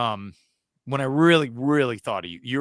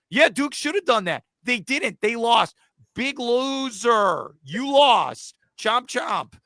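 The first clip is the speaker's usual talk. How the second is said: mocking taunt; 4 semitones higher, slower than usual. Mocking Duke, taunting loser.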